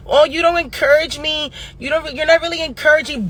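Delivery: lightly mocking grievance voice; mock complaint. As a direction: mimic someone moaning about lack of support. Mimicking people's complaints.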